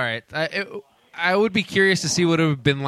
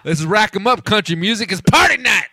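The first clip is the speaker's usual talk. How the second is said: mock Russian accent; 2 semitones higher, 3 dB louder than usual. Russian macho boast, getting louder.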